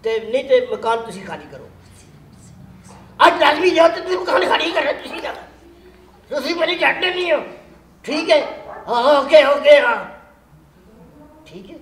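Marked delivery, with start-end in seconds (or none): 3.3-8.4 louder, half-laughing mock anger; angry landlord. Shown as a demonstration. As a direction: demand the tenant leave today, half in jest. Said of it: "ਸਹੀ ਗੁੱਸੇ ਨਾਲ ਬੋਲਿਆ ਕਰ".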